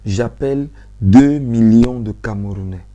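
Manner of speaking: "deux millions" appuyé, plus fort et lent; appel insistant. Real, not acted. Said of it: "J'insiste encore et je dis". (insistance solennelle sur "deux millions")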